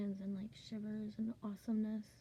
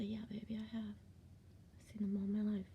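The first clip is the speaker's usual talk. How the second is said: tender hush; 6 dB quieter than usual. Retold or imitated. Mother hushing her eight-year-old son at bedtime, tender and soft. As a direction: reassure a small child in a hush.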